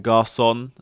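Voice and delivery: garçon with plain English vowels; anglicised garçon, full n at the end; English accent. Shown as a demonstration. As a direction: say garçon like an English word, unFrenchified. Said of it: "when I say it in an English accent".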